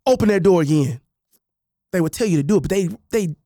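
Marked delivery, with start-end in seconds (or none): 0.1-1.0 threatening parent. Retold or imitated. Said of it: "the inflection in their voices".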